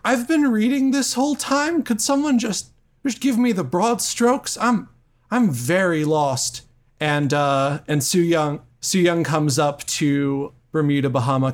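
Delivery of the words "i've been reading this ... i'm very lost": high-pitched bewildered character; lost and exasperated, pitched way up; Xavier. Acted. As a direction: plead for help in a high voice. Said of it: "And Xavier's like".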